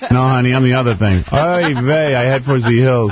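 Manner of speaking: put-on old Jewish lady voice; Yiddish accent. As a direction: play it as a kvetching Jewish grandma. Playing a Jewish woman.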